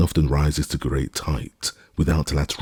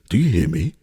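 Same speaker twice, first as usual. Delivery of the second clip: higher, louder call; 7 semitones higher, 4 dB louder than usual. A narrator's reading. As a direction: call up the tree. Legrand calls up the tree.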